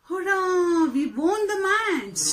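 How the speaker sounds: drawn-out cheer for a demonstration; a teacher's mildly excited victory cry; exclaiming. Shown as a demonstration. Teacher giving students an example of exclamation, mildly jubilant.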